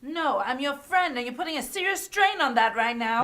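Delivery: firm pushback. Acted. Friend pushes back firmly.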